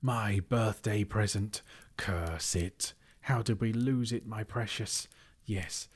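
slow, wailing creature voice; squelching mud creature. Acted. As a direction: lament it like a wretched creature. Gollum cursing his loss.

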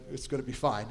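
low, soft, understated dad voice; dad reassurance. Retold or imitated. Dad to the worried ride attendant, quietly reassuring. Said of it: "gave him the dad look that said".

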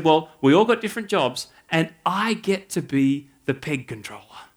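put-on thrilled kid bragging about her new job; a daughter proudly telling dad she's peg controller, excitedly; excited child. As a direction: voice the daughter's eager delight, with a laugh. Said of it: "she came home very excited".

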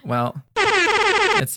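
laughing through the words; giggly teasing. Real, not acted. Laughing teasing about air horn.

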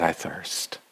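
low, soft retold dying words; subdued, weakened murmur; suffering. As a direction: let it drop low and quiet, like someone suffering. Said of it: "Oh, how he suffered".

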